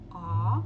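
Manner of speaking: loud "ó" with an open, relaxed mouth; open aw vowel. Shown as a demonstration. Teacher showing the open vowel, loud. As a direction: belt out "ó" between A and O. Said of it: "Ó, ela não é redonda".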